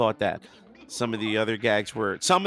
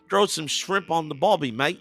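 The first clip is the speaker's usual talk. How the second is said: put-on stereotypical Aussie accent; 5 semitones higher than usual. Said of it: "the stereotypical".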